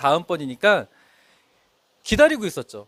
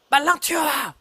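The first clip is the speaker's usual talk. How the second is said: retold yell; 7 semitones higher than usual. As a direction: yell at the late junior to hurry. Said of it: "막 제가 소리 질렀어요".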